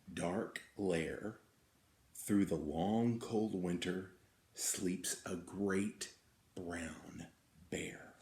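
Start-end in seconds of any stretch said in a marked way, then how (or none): 2.1-8.1 slow down and drop to a whisper; fading to a whisper. A narrator's reading. Reading a bedtime story, fading to a whisper. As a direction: hush it down to a whisper on bear.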